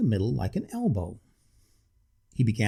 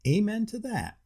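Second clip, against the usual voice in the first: devout; 11 semitones higher than usual. Acted. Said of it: "said the waiter devoutly".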